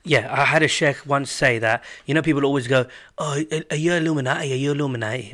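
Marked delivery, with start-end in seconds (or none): 3.2-5.3 put-on northern accent. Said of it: "said that in a northern accent".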